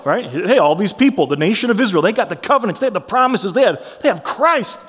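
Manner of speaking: measured public reading of the passage; scripture reading. Acted. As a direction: read Romans to the congregation, steady.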